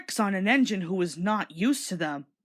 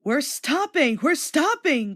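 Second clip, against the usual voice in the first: higher, louder call; 6 semitones higher, 3 dB louder, slower than usual. A narrator's reading. Thomas calling back to the trucks, higher and louder. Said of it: "called Thomas".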